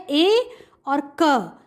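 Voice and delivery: teacher blending letters slowly for the class; slow blending demo. Shown as a demonstration. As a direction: sound out slowly, then join into one word. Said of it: "ऐसे ही बोलना है आपको".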